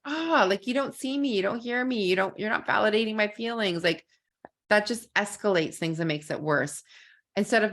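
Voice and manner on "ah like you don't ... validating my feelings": frustrated retort. Retold or imitated. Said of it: "It's like".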